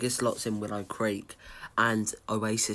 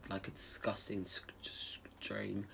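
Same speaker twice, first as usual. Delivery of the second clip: whispering; 13 dB quieter than usual. Real, not acted. Disgusted aside about dirty stream.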